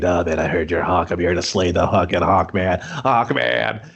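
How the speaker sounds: lightly voiced low-pitched challenger; mock a thick-headed rival calling someone out; belligerent challenger. Acting out challenger confronting Hawk.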